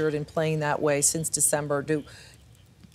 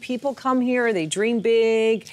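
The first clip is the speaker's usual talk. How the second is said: mock dreamy; 5 semitones higher than usual. Dreamy Hollywood pitch to Susie.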